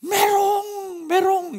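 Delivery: put-on high, loud childish shout; toddler's outraged taunt; angry little girl. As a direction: yell it like a furious four-year-old. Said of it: "화를 내는 거예요".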